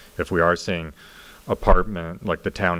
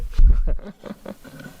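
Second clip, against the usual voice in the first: burst of laughter; 12 dB louder than usual. Real, not acted. Laughing at shared reaction.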